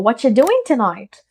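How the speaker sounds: accented, run-together "whatcha doing tonight"; casual connected-speech accent, "doing" lifted; Netflix-style accent. Shown as a demonstration. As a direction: imitate a series character's casual English accent. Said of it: "अगर Netflix किरदार ने कहा हो".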